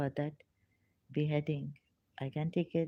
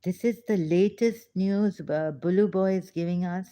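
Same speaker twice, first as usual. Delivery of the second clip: ordinary talk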